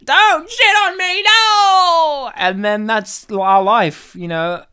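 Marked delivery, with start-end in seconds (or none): 0.0-2.3 high, loud panicked cry; panicked shout. Pretend. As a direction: yelp it in mock panic. Mock panic on the street.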